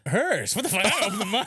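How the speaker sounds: high, loud words broken by laughter; cracking up mid-sentence; real laughter; laughing. Real, not acted. Laughing while retelling the prank.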